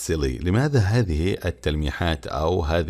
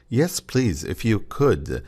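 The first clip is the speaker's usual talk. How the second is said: "Yes, please, if you could" as a gentle polite reply; teacher modelling a polite answer; polite demo; 4 semitones higher, much slower than usual. Shown as a demonstration. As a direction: offer it politely, lifting on "Yes". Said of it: "A polite way to respond to an offer".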